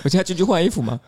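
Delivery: answering sheepishly through a laugh. Real, not acted. Guest retelling his awkward reply to the boss, laughing.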